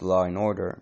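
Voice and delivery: "law and order" said "law-r-and order"; "law and order" with an R slipped between law and and; linking R. Shown as a demonstration. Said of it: "with an R between law and and".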